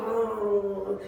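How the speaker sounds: long humming plane drone; sustained motor hum; imitated engine noise. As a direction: mimic a diving plane's motor.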